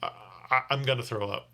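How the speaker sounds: fast, stammering mock alarm; imitated queasy panic. Drunk passenger warns he'll vomit, fast mock panic. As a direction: rattle it off like you're about to be sick. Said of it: "this guy says".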